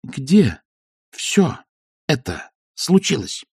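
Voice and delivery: each word spaced out sharply; clipped and precise. Acted. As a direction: rap out every word separately. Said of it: "Отчеканила Маград".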